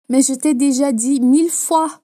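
mildly exasperated French retort; a touch of irritation, acted for learners; angry, impatient. Shown as a demonstration. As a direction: demonstrate mild anger and impatience. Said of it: "fazendo a entonação de raiva e de impaciência".

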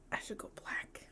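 soft unvoiced whisper; whispered confession. Real, not acted. Admitting to her friend she might dye her hair black, whispered. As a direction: whisper it like a guilty secret.

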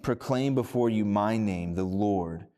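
measured scripture reading voice. Acted. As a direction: read the passage with solemn weight.

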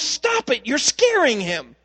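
put-on a boy protecting his spider from the lady; the boy scolding the lady, indignant; scolding little boy. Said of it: "And he goes".

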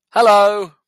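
high, loud put-on hello; sing-song high-pitched welcome, hammed up; cheery mock greeting. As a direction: call out an exaggerated friendly greeting. Imagined friendly greeting from brother.

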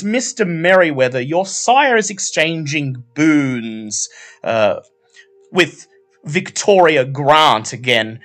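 high, gracious society lady voice; courtly Herald. Acted. Herald greets Vincent by name, high and gracious. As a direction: purr a polite welcome from on high. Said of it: "She looks over her shoulder and says".

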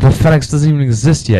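retold annoyed objection; mad caveman. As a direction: imitate an indignant complaint. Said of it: "he gets so mad".

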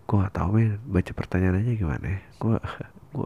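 ordinary talk

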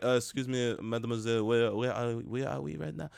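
mock French accent, hesitant English. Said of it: "he speaks it with a heavy, thick French accent".

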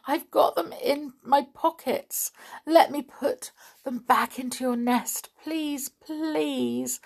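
a doll confessing through mild sobs; sobbing. A narrator's reading. Amelia confesses to the thrush, tearful and pleading. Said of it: "sobbed Amelia".

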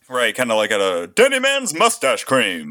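slow, hammy vintage pitchman; lightly voiced old-time ad announcer; old fifties salesman voice. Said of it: "old nineteen fifties salesman voice".

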